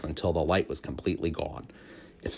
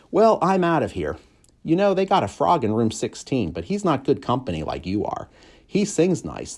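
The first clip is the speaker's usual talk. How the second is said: cheerful janitor; 7 semitones higher, 3 dB louder than usual. A narrator's reading. Aldo's voice.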